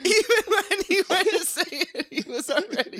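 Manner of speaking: high wheezy laugh; laughing while talking. Real, not acted. Laughing retelling.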